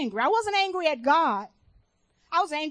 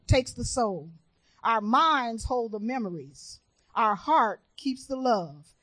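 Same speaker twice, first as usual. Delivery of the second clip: slow, measured recitation; solemn quote reading; 3 semitones lower than usual. Real, not acted. Preacher reading a quote on death to the church, solemn and slow. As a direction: read it slowly, phrase by phrase, with weight. Reads a quote aloud to congregation.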